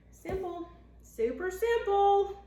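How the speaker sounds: high, slow and loud; super simple. Real, not acted. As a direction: stretch it out proudly. Bragging how easy biscuits are.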